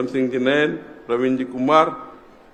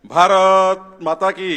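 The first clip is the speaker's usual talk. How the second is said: raised, slow call, not full force; moderate rallying call; 4 semitones higher, much slower than usual. Real, not acted. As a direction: lead the chant at half strength. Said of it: "असा कसा आवाज चालणार आहे?".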